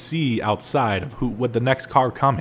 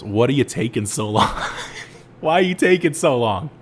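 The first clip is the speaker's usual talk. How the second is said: laughing through the boss's question; boss asking. Retold or imitated.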